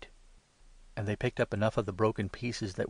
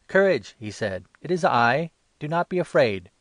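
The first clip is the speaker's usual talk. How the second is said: loud, higher call across the waves; calling out reassurance; 6 semitones higher, 9 dB louder than usual. A narrator's reading. Jesus calls to disciples over the storm, loud reassuring call. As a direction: shout courage to frightened men.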